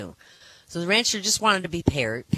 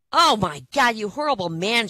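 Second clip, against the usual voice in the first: outraged wife; 6 semitones higher, 5 dB louder than usual. Acted. Wife outraged at dead cat impression.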